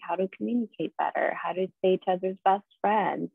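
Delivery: ordinary talk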